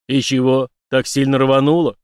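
can't believe the blast; Zak, amazed, asks about the explosion. Acted. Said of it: "удивлённо спросил".

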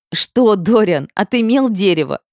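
teasing through giggles; mock him while laughing. A narrator's reading. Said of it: "Сквозь смех выдавливают слова".

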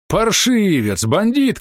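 high, loud outraged shout at a thug; old man's furious cry. A narrator's reading. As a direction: yell it out in fury. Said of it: "кричал он".

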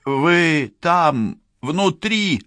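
high-pitched yell to someone inside. A narrator's reading. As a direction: call out through the door, high and forceful. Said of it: "заорала Францискович".

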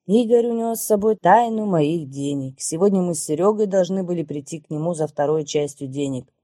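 plain reading voice

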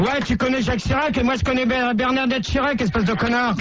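insulting. Acted. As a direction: taunt him hard. Canular, il insulte l'employé. (insulte moqueuse au téléphone)

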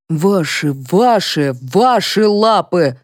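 exasperated, slow repeated words; angry. A narrator's reading. Colonel correcting the women, angrily. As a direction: stress each ваши with rising anger. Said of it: "разозлился Дегтярев".

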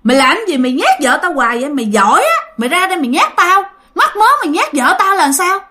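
indignant challenge, climbing to a high pitch; retold angry scolding. Father challenges ghost for scaring his wife, scolding angrily. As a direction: build from exasperated muttered start to mock tirade. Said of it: "Ba tức quá cái ba mới chửi".

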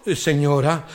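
a low, servile "señora"; waiter. Retold or imitated. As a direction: waiter answering the old lady. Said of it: "waiter answers".

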